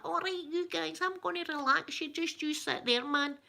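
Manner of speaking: high-pitched Ned hosting relaxation; Ned ASMR. Acted. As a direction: parody a street-talking ASMR host. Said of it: "Ned A S M R".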